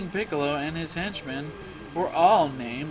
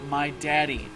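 put-on scared little kid; 4 dB louder than usual. Voices scared small child crying out.

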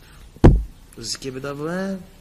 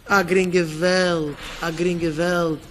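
langsam betont; much slower than usual. Real, not acted. Satz betont zweimal gesagt.

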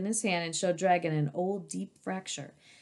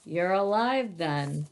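1 settled dragon voice; slower than usual. Shown as a demonstration. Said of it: "Oh, I got it".

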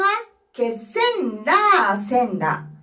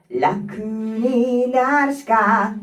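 vocal fry; much slower than usual. Shown as a demonstration. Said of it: "うんと、こうね".

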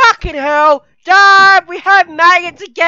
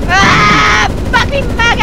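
hammed-up war cry, higher; battle shout; 5 semitones higher than usual. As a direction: yell it like charging into battle. Battle yells while killing maggots.

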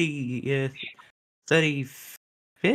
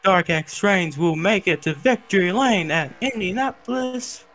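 race commentary; 2 semitones higher than usual. Real, not acted. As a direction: call the winner home like a commentator. Calls the race winner live.

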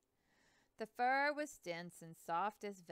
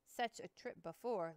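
earnest; 2 semitones higher, 6 dB louder than usual. Acted. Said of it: "Lewis said earnestly".

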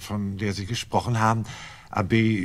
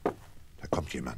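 urgent whispering; 7 semitones lower, 10 dB quieter than usual. Acted. Couple whispering as a stranger enters the inn, urgent whisper. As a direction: whisper so the visitor won't hear.

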